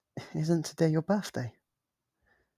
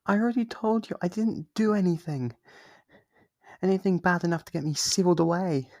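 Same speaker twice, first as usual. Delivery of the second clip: high, louder insistence; defensive protest; 6 semitones higher, 3 dB louder than usual. Acted. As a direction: protest your innocence, pitched up. Demon protests its innocence.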